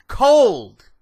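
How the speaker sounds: loud, high shout of disbelief; real furious shout; outraged shout. Real, not acted. Discovers coffee is cold.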